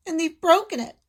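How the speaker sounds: put-on high squeaking baby bear; squeaky Baby Bear. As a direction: squeak like a tiny cub. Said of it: "squeaked Baby Bear".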